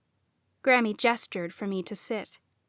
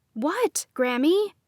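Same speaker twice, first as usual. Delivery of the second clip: demanding; 6 semitones higher, slower than usual. A narrator's reading. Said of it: "I demanded".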